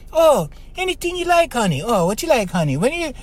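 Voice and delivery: hammed-up pleading to his girlfriend; fawning boyfriend. Mocking a man who gives in.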